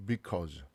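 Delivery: "because" as bi-KUH-z; "because" with an unrounded uh in it; mispronounced uh vowel. Shown as a demonstration. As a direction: say "because" with a wide Korean 어. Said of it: "because도 아니란 얘기예요".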